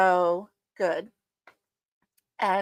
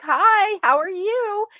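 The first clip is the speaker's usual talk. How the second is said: put-on bright greeting to a child; 10 semitones higher, 4 dB louder, slower than usual. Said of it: "And I'm like".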